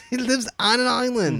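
high comic repeat after a laugh; playful high exclamation; mock high-pitched voice. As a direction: pipe it up high in jest.

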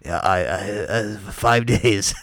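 halting, slow sick voice; sick Walt. Retold or imitated. Co-host imitating his sick friend explaining, halting sick impression. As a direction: stammer it out like someone ill. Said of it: "let me see if I can do Walt".

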